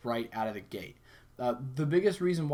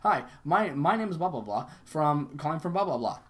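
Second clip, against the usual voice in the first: pushy telemarketer; 2 semitones higher, 4 dB louder than usual. Retold or imitated. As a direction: imitate a salesperson barging straight in. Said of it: "salesperson just runs with it".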